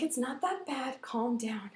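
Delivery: softly calming mother; soothing mom. Retold or imitated. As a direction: settle a hysterical child gently. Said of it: "she comforted me".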